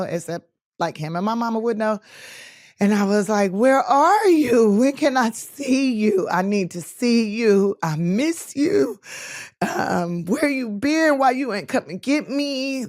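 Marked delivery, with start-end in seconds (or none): 3.5-12.8 pleading father. Retold or imitated. Begging father on phone.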